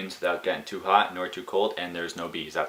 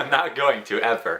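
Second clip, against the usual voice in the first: louder, higher laughing denial; 6 semitones higher, 4 dB louder than usual. Real, not acted. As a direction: insist while laughing.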